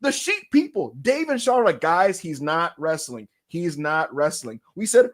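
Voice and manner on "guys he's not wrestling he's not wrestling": slow, spelled-out imitation of reporters; patient warning. Reporters telling fans the news, slow and patient. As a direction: lay it out slowly, word by word.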